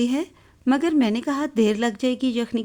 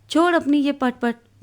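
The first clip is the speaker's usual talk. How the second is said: higher, louder telling-off; loud scolding; 4 semitones higher than usual. Acted. Mother shouting at her son over his noisy toy car, louder and higher. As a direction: snap at the child to drop the toy. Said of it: "بلند آواز میں ڈانٹ رہی ہے".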